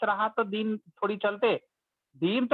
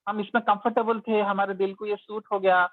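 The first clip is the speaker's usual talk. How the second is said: upset protest; 3 semitones higher than usual. Retold or imitated. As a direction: voice the flustered believers objecting. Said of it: "एकदम परेशान हो गए".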